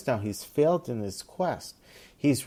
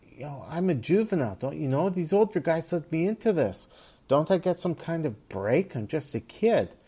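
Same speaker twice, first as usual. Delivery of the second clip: put-on higher, quicker voice of a scared teen; pleading kid; 6 semitones higher than usual. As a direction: beg like a young punk caught out. Gang kid begs for mercy.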